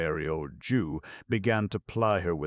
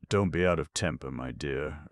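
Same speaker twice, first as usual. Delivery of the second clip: submissive. Acted. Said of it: "urged Fagin submissively".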